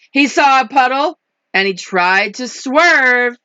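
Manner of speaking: animated picture-book narration; lively, rhythmic rhyme reading; story reading to children. A narrator's reading. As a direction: stretch the key words for young listeners. Reads picture book aloud.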